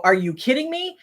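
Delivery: high-pitched, disbelieving retort; incredulous. Retold or imitated. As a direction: quote your disbelief, pitched well up. Looking back, disbelief at blame.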